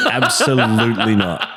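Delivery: laughing as she says it; laughing refusal. Real, not acted. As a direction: chuckle through a firm no.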